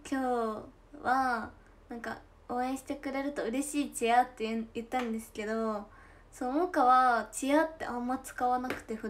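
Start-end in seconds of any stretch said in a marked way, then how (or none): 0.1-4.2 Tosa dialect. Retold or imitated. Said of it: "土佐弁で".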